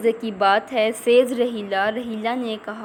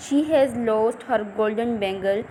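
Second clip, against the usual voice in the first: slow reading aloud; much slower than usual. Shown as a demonstration. Teacher reads text slowly.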